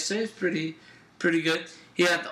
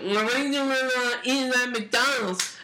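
higher-pitched mocking comeback; imitating little brother; 5 semitones higher than usual. Little brother answering back about fast food, high mock retort. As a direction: throw it back in a kid's higher voice. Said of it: "his little brother's like".

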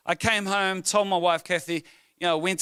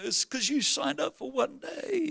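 high, drawn-out mock-tearful complaint; upset daughter imitation; 8 semitones higher, 3 dB quieter, slower than usual. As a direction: act out an upset child, pitched high. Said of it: "she was so upset".

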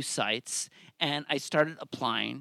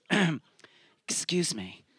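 mock roommate whisper. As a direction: mimic her fussy little apology. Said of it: "she'd be like".

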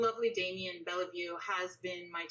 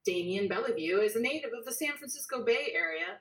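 reporter voice; 2 semitones higher, 5 dB louder than usual. Acted. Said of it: "This is like my, uh, reporter, uh, voice".

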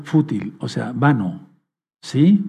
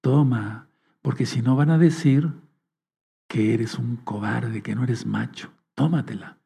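tempting inner voice; 3 semitones lower, 5 dB quieter than usual. Retold or imitated. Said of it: "Es la vocecita".

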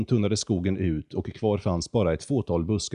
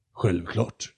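arrogant. Acted. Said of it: "svarade kondoren arrogant".

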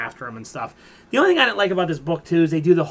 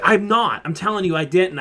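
mock protest, a little higher and louder; retold indignant denial; 3 semitones higher, 5 dB louder than usual. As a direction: protest your innocence, as retold. Retold denial under accusation.

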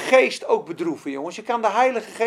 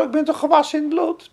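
smug self-assurance; 4 semitones higher, 4 dB louder than usual. Retold or imitated. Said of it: "Misschien denken ze wel zo".

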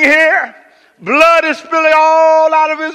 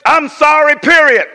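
curt apology; 2 semitones higher, 3 dB louder than usual. Shown as a demonstration. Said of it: "the first level we often do".

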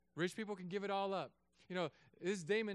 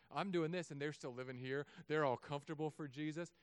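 imagined smug boast. Retold or imitated. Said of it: "and he says".

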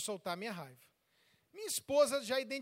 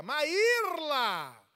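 loud, raised-voice confrontation; acted anger; 4 semitones higher, 7 dB louder, slower than usual. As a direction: confront the wife loudly, pitched high. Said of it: "Eu tô com raiva".

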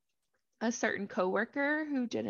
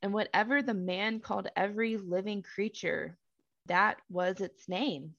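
measured, deliberate Bible narration; scripture reading. A narrator's reading. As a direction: read the verse out with spaced phrases.

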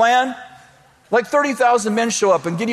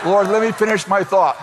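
laughing plea to God; 3 semitones lower than usual. Real, not acted. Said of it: "No, I better, wa-, wait".

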